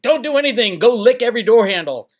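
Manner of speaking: high, loud mocking impression; Snippy. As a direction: parody a YouTuber handing out silly advice. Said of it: "Um, Snippy, like".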